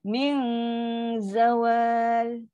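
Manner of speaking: long light hum in "Min", thin "zawal"; low thin dengung. Shown as a demonstration. Teacher shows a low letter after the hum, thin dengung. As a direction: hold "Min" with tongue low, then "zawal". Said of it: "Dia ada huruf istifal".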